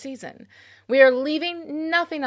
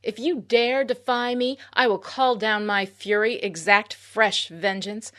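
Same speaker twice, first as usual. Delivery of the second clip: hammed-up dark sorceress threat; evil queen. Menacing mock villain intro.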